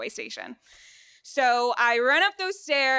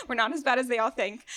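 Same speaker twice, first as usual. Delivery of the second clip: laughing. Real, not acted. Joking about being from Florida.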